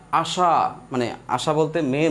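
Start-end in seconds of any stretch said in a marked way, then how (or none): 0.1-0.7 আশা ending on a long held vowel; drawn-out open syllable. Shown as a demonstration. Teacher demonstrating an open syllable to students, holding the end of আশা long. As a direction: let the last vowel of আশা stretch. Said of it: "এই শব্দগুলো আপনি টেনে বড় করতে পারবেন".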